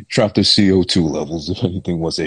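breathy whisper through laughter; laughing whispered quip; whispered laughing aside. Real, not acted. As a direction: giggle it out under your breath.

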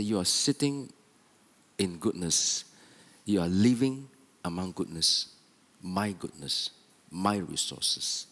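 shocked father. Acted. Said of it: "And his fathers were shocked".

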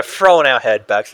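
ordinary talk, nothing marked

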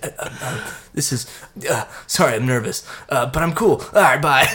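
put-on stammering nervous teen, halting; nervous teen on a first phone call. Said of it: "And he's like".

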